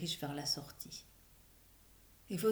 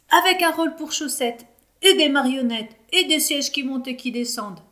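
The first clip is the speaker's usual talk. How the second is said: high loud tumbling excitement; excited ideas; 7 semitones higher, 9 dB louder than usual. A narrator's reading. Children excitedly pitching play ideas to the director. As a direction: pile on ideas, thrilled.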